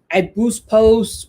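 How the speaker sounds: slow, drawn-out boast; mock client. Client bragging about boosting posts, drawn out. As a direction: stretch it out like it's genius. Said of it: "And they're like".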